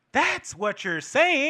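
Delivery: stretched, deliberate delivery; drawn-out point. Real, not acted. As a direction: spell it out slowly. Drives home the point, first take.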